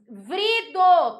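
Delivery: teasing vrido; mock wrong vidro. Shown as a demonstration. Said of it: "que delícia falar vrido".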